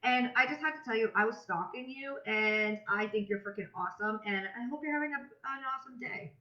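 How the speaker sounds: bubbly, upbeat voice-memo greeting; demo voice memo. Shown as a demonstration. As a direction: gush like you're messaging a new friend. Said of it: "And I'll be like".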